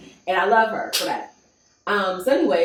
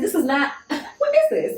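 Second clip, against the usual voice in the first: high, laughing what is this; incredulous laughing squeal; laughing disbelief; 10 semitones higher than usual. Retold or imitated. Retold shock at salon.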